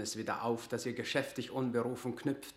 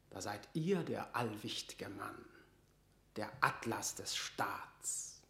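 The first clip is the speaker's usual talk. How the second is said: sarcastic whisper; 2 semitones lower, 6 dB quieter, slower than usual. Acted. Leicester mocks Burleigh.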